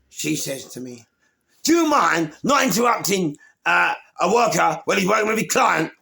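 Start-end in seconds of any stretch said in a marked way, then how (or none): 1.6-5.9 high, loud retold telling-off; angry shout. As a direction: bark it at him like an indignant official. Caseworker snapping at him in story.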